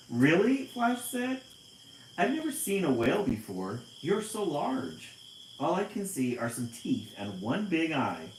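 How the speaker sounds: high, loud fish voice, wide-eyed; amazed tiny fish. Acted. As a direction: play the little fish awestruck.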